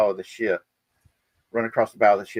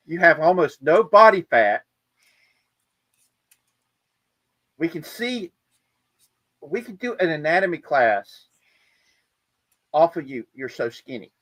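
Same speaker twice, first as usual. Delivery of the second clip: amazed shipmates; 5 semitones higher, 3 dB louder than usual. Retold or imitated. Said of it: "they're like".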